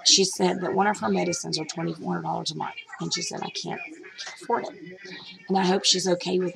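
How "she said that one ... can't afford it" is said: getting emotional. Real, not acted. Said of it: "I'll get emotional".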